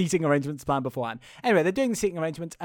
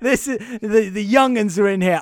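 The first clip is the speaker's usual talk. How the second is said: cocky groom; 7 dB louder than usual. Retold or imitated. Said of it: "Sydney, the groom, goes".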